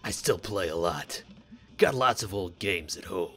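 Solid Snake voice. Acted. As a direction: play it like a gruff spy hero. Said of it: "I gave this guy a solid Snake voice".

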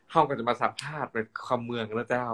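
interviewer speaking kham mueang; Northern Thai host voice; Northern Thai dialect. Shown as a demonstration. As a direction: switch into Chiang Mai Northern Thai.

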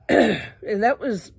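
slow, strained, throat still caught; clearing throat. Real, not acted. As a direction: talk through a throat clear. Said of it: "I'm clearing my throat so much".

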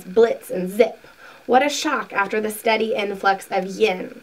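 deliberate reading with stressed key words; measured, emphatic book narration; book read-aloud. A narrator's reading. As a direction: read a spiritual teaching aloud, unhurried. Reads book passage aloud.

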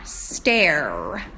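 doubtful guess. Shown as a demonstration. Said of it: "If it was stare".

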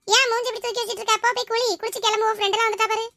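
high-pitched, hurrying nag; chiding sister-in-law. Acted. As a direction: hustle her along in a high voice. Sister-in-law hurries sulking bride. (அவசரப்படுத்தும் மைனியின் உயர்ந்த குரல்)

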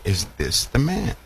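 rising to a high, squeaking "Really?"; incredulous mock question climbing high; disbelief. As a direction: build from doubt to shocked disbelief. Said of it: "people will look upon Satan and say".

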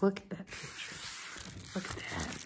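soft whispered urging; hushed and awed. Real, not acted. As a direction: coax them to look. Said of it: "hushed urging".

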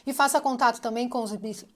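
speaking around a dental retainer; words slightly blurred by a retainer in the mouth; wearing a retainer. Real, not acted. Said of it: "tô com o aparelho aqui".

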